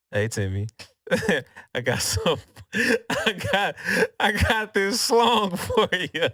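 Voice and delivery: weirdo voice climbing high, broken by laughs. Retold or imitated. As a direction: start normal, then stretch it out high and slow. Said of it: "turns back around like a weirdo".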